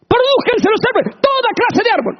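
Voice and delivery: booming high divine command; God commanding. Acted. God calling creation into being, booming command. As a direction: thunder it out as the Creator. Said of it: "con su palabra".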